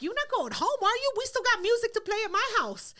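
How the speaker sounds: lightly voiced tipsy friend coaxing; imitating the bird. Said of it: "she's like".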